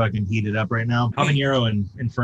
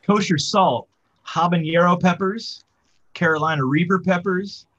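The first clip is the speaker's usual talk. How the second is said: dramatic announcer; 7 semitones higher than usual. Acted. Dramatic reading of ingredients.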